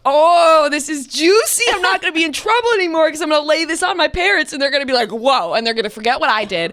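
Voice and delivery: high, gleeful scheming; a teen plotting to dodge trouble, high and gleeful. Retold or imitated. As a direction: gloat over the juicy find. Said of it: "I'm like".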